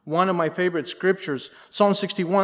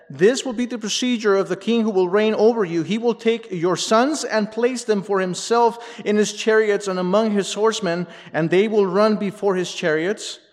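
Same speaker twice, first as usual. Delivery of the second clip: higher, louder proclaimed reading; scripture read aloud; 6 semitones higher, 5 dB louder than usual. A narrator's reading. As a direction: read out the warning with raised voice. Reads Samuel's warning aloud.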